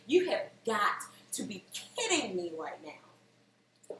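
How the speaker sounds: slow, spelled-out disbelief; exasperated disbelief. Retold or imitated. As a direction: drag it out in exasperation. Exasperated inner reaction to stains.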